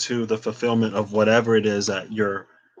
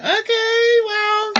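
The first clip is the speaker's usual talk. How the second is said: surprised okay; much slower than usual. Real, not acted. Reacting to surprise card.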